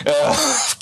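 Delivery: high-pitched imitated whimper; mock crying groan. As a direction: groan like an upset kid, playfully. Retelling himself as crying child.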